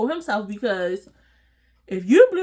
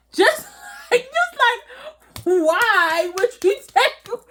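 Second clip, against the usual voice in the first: shocked disbelief; 9 semitones higher, slower than usual. Retold or imitated. Reacting to being tackled.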